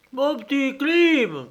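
high, slow coaxing call. Acted. Surveyor calling the runaway coachman, high drawn-out call. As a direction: call him back sweetly into the dark. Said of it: "cria-t-il".

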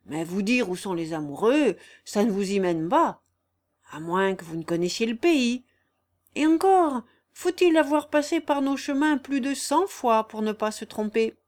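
lightly voiced crafty old countryman; sly vagabond. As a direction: toy with the listeners in a mild rustic character. Raguet, sly vagabond, haggles.

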